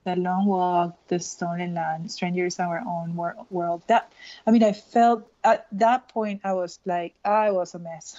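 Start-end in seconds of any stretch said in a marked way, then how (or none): 0.0-3.8 poem reading. Acted. Rereads the first three lines.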